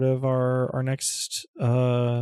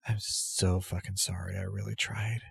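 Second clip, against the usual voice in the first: choked-up apology, a touch quieter; barely holding back tears; thick voice; 6 dB quieter than usual. Acted. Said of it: "her voice is a little thick".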